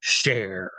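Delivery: lightly voiced club DJ introduction; DJ announcer. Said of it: "the D J says".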